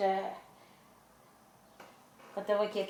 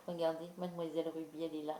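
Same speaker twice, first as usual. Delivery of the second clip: ordinary delivery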